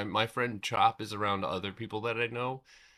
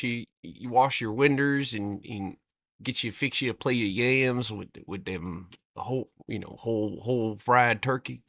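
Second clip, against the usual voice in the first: demonstrating thick Southern country talk; put-on Southern accent; 4 dB louder than usual. Shown as a demonstration. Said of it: "talk about something like this".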